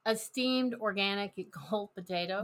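chewing while talking; mouth full. Real, not acted. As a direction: speak round a bite of potato. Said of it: "She's got a mouthful of potato".

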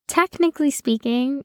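"Technically" picked out with extra emphasis; stress on TECHNICALLY. Real, not acted. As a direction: lean pointedly on "Technically". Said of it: "Emphasis on technically".

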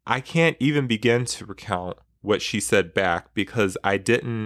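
reading a memoir passage aloud with feeling; expressive book reading; story reading. Acted. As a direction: read the excerpt like telling it to a listener. Reads a book excerpt aloud.

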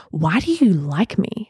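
slow, flat-toned frustrated question; plain frustration. Retold or imitated. To her partner during a fight, slow frustrated question. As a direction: ask it bluntly, worn out. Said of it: "so plainly in frustration".

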